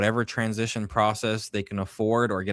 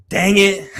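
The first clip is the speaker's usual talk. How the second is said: mock dismayed cry, higher and louder; dismayed groan; 9 semitones higher, 8 dB louder than usual. Co-host voicing a cornered Democrat, mock dismay. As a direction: act out the dread of a doomed witness. Imitating politician caught off guard.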